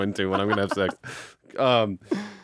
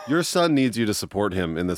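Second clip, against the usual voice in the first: mock appeal to mom; 3 semitones higher than usual. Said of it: "Look, Sharon".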